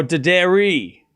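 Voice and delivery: Daderi as slow duh-DAIR-ee, falling at the end; pronunciation option. Shown as a demonstration. Streamer gives chat the final option, slow duh-DAIR-ee for Daderi. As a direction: close the list on Daderi, stretched after a short duh. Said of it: "Which one is it?".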